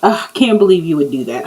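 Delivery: fast scoffing "Ugh"; a quick dismissive ugh; mock disbelief. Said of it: "posh is like".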